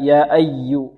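"أي" leaned on at the doubled y; slow recitation, press into "أي"; accented shadda. Shown as a demonstration. Teacher demonstrating the nabra, stressed doubled letter. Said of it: "نبرة".

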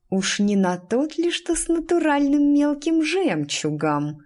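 tense question, climbing high and slowing; through gritted teeth. A narrator's reading. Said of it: "сказала сквозь зубы анаграмма". (сквозь зубы)

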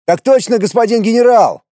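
high, loud, brisk military answer; captain answering the general briskly; brisk reply. A narrator's reading. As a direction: snap back like a keen soldier. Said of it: "бодро отозвался я".

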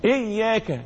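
"إياك" ending in a short open a after ك; fatha on the kaf. Shown as a demonstration. Teacher showing the kaf's vowel, short fatha. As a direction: finish "إياك" on a brief "ka", not drawn out. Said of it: "إياك الكاف مفتوحة".

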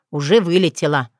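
ordinary delivery

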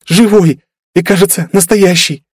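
high joyful exclaim; excited girl's voice; overjoyed girl. Acted. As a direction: gasp it out with delight. Girl hugging him, overjoyed.

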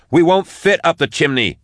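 high, urgent objection; yelled protest. A narrator's reading. Max objects to Drusha's chimney escape, urgent yell. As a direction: yell back in alarm. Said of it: "she yelled".

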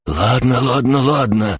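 high, panicky squeal of surrender. A narrator's reading. Captive Шор gives in under the axe, squealing. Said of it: "заверещал Шор".

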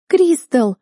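high, loud anxious call of a name; alarmed shout of a name; alarmed cry. A narrator's reading. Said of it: "встревоженный вопль сестры".

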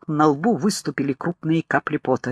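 plain reading voice

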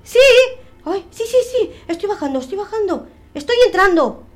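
high, strained effort, half sobbing; straining ghost. Acted. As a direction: push with all your strength to get back in. Ghost straining back into body.

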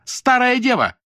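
very high, loud jeering yell; shouted insult. A narrator's reading. Lyuda jeers at Nadya, shrill shouted insult. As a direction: jeer the insult out.

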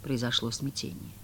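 plain reading voice

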